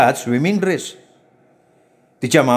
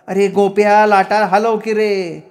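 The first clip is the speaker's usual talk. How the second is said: high, drawn-out stage call; amateur-play shout; 6 semitones higher, slower than usual. A narrator's reading. Schoolmaster cuing the wave-shaker mid-play, stagey shout. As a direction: call it out slowly, pitched high. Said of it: "गॅदरिंगचं नाटक चालू असल्यासारखे ओरडले".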